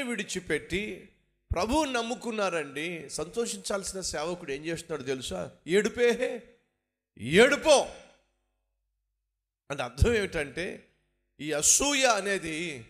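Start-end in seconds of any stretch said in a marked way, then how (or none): 5.7-7.9 loud, high mock lament; hammed-up crying lament; mock wailing. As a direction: wail it to mock the jealous servant. Mocking the servant's weeping.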